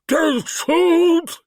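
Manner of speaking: high, loud frightened cry; a cornered creature begging not to be shot. Acted. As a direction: yelp it out in alarm. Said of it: "it cried".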